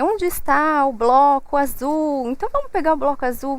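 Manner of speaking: put-on slow, sing-song question to a small child; slow playful question to a toddler. Shown as a demonstration. Mother asking her toddler to find the blue block, slow and sing-song. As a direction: ask it slowly, drawing the child in. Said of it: "você fala com ele".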